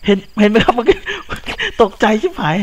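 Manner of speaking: high, loud shaken talk; shaken and startled. Real, not acted. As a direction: still rattled from the scare. (พูดเสียงสูงยังตกใจอยู่)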